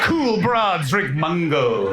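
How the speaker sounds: slow, drawn-out mock decree; mock proclamation. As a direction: pronounce it like a grand rule. Mock pronouncement about drinks.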